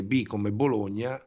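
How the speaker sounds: letter by letter with city names; spelling it out. Shown as a demonstration. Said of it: "Ho sbagliato anche lo spelling".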